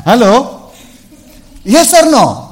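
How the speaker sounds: loud high laughing question; shouting through laughter; laughing challenge. Real, not acted. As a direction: laugh and press the crowd.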